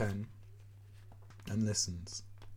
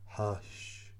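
unvoiced, softer drawn-out shush; wafted hush; 6 dB quieter than usual. A narrator's reading. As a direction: let the shush drift through the house. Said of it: "is wafted through all the rooms".

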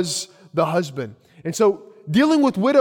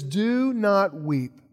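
slow tender; 3 dB quieter, much slower than usual. Retold or imitated. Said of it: "And he says".

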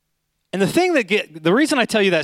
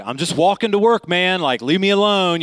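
higher-pitched mock irritation; imitated annoyance; 4 semitones higher than usual. Walker brushing off a nosy cop, mildly annoyed. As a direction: act out a man fed up with questions. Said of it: "the guy is super annoyed".

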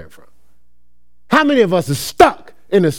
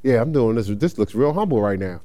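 mock humble; 10 semitones lower, 5 dB quieter than usual. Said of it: "I'm like".

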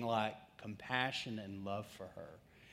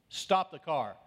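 louder, sudden stern order; loud command; 3 semitones higher, 5 dB louder, slower than usual. Retold or imitated. The voice he hears while cruising past campus, loud command. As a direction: call it out like an order from above.

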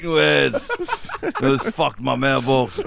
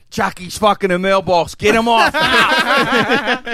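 mock alarmed yelling; 6 semitones higher, 5 dB louder, slower than usual.

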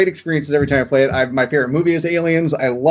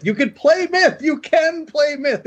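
high voice; 10 semitones higher, slower than usual. Pretend. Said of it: "mock pitch for Myth".

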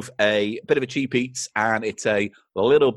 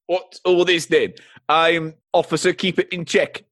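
lightly voiced bumbling cartoon policeman; dim pompous cartoon cop; 3 semitones higher than usual. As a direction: play a dopey, self-important bobby. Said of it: "crazy characters".

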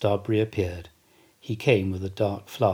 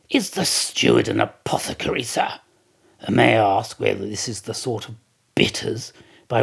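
Stubb indignant; 4 dB louder than usual. Acted. Stubb complains to Starbuck.

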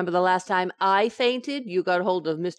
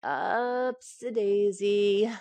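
coaxing; much slower than usual. Acted. Coaxing husband to sit up.

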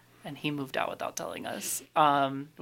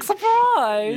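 excited shout; 10 dB louder than usual. Retold or imitated. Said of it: "He's like".

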